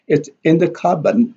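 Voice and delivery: IN stressed, "It's in the cupboard". Shown as a demonstration. Teacher demonstrates contrast, stress on IN. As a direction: put the weight on the word in. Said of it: "the in here is stressed".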